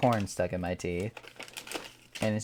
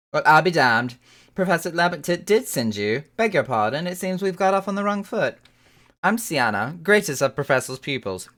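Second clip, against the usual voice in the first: proud scholar voice; 7 semitones higher, 6 dB louder than usual. Acted. Reads NPC scholar's lines.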